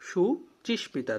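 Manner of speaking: সুচিস্মিতা said slowly, each syllable clear; careful slow teacher reading of সুচিস্মিতা. Shown as a demonstration. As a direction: spell out সুচিস্মিতা slowly for dictation. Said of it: "তারপর হচ্ছে সুচিস্মিতা".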